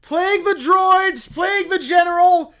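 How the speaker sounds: loud, laughing curse; shouted curse. Acted. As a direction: call down plague on everything. Bear casts plague again.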